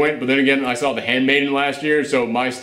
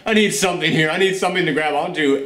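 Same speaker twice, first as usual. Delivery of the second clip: exasperated plea; 5 semitones higher than usual. Retold or imitated. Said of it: "I was like".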